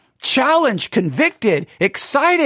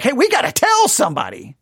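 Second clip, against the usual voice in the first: urgent; 3 semitones higher than usual. Acted. Hearers deciding to tell somebody, urgently. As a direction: rush to spread the news.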